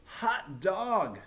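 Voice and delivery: put-on high, loud kids cheering. A narrator's reading. Kids welcoming the teacher back, cheering. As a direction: whoop with joy. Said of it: "cried the kids".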